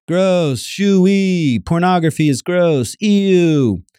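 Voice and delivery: high, squeamish ew of disgust; mock disgust. Mocking a listener who only recoils, high disgusted ew. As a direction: act grossed out, turn the voice up high. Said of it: "You don't reject it by meditating on how bad it is".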